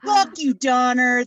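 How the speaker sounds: Rudolph snapping. Acted. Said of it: "my impression of Rudolph the Red-Nosed Reindeer".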